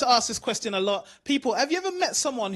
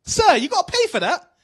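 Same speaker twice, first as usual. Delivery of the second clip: loud call, a touch higher, after a departing customer; loud call to a man walking off unpaid; shouting after him; 7 semitones higher, 7 dB louder than usual. Retold or imitated. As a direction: call out sharply to stop him leaving. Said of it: "So I shouted to him".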